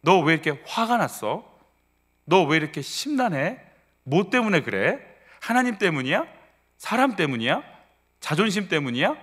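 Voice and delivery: string of probing questions in a swooping, repeated tune; questioning oneself. Acted. Preacher modelling how listeners should ask themselves, probing self-questioning. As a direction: interrogate yourself, each question lilting alike. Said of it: "여러분한테 물어보세요".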